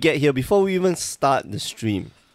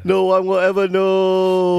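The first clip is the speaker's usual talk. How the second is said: mock sinister; 8 semitones higher, 4 dB louder than usual. Mock sinister murder joke.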